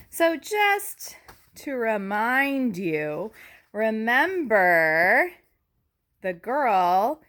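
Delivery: slow unvoiced whisper to the class. Real, not acted. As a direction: lean in and whisper the reminder. Teacher whispers reminder to class.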